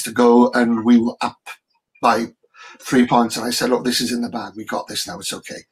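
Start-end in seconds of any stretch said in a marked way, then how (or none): 3.7-5.6 reassuring hush. Retold or imitated. Calming his son as time ran out.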